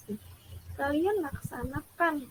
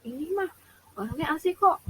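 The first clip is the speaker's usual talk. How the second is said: mock chummy student, voice raised; too casual with a teacher, getting louder; overfamiliar, loud; 5 dB louder than usual. Shown as a demonstration. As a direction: play the cheeky, overfamiliar pupil. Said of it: "suaranya dibesarkan".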